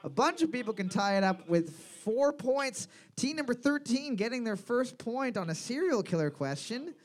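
pub-quiz announcer reading standings; lively scoreboard rundown; quiz host. Real, not acted. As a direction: announce the scores to the whole room.

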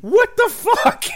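very high, slow, loud disbelief; shocked squeal. Real, not acted. Host reacting to the comic's cruelty.

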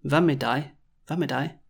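"med" with the final D dropped. Shown as a demonstration. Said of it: "to hear it pronounced "me".

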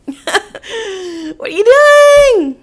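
very high, drawn-out wail of disbelief; exasperated wail. Retold or imitated. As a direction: stretch out "doing" high and loud. Retells confronting boyfriend, looking at him.

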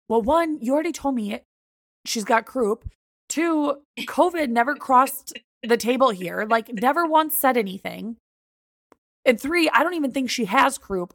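firm, exasperated rebuttal; heated arguing. Retold or imitated. Heated list of objections.

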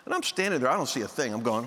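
ordinary delivery

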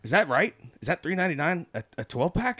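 high, incredulous asking voice; mock-innocent pitch up on the question; imitating Josh.

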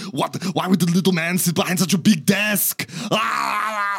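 loud, high mock Austrian strongman yell; hammed-up yelling at a tiny producer; Arnold Schwarzenegger. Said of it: "him and Arnold Schwarzenegger just yelling".

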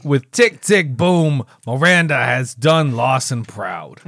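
emphatic mock Boston accent; attempted Boston accent. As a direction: try a Boston accent without quite managing it. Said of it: "I don't think I can do a Boston accent".

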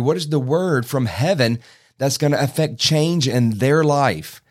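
fired-up appeal in steady emphatic bursts; excited preaching. Real, not acted. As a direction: preach it with rising urgency to pastors. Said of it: "'cause I'm getting excited".

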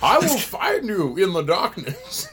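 slow, lightly voiced villain threat; a hint of a breathy movie villain; Bane voice. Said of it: "like fucking Bane from Batman".

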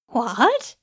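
shocked rising what; stunned. Acted. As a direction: gasp it out in shock. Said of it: "stunned at the sight".

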